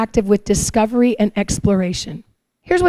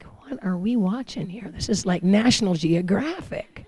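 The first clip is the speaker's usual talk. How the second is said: puzzled murmur; 7 dB quieter than usual. Retold or imitated. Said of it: "And I'm like".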